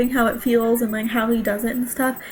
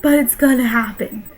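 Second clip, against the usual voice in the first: panicked; 4 dB louder, faster than usual. Retold or imitated. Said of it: "I'm like".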